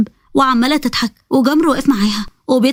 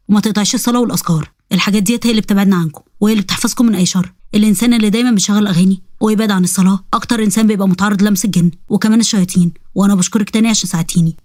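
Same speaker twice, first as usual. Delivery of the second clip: a lightly lower, sly jinn voice; jinn boy voice; 4 semitones lower than usual. Acted. Jinn Jamr pleading with Sara to keep her promise, lightly lower voice. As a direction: play the jinn bargaining with the girl.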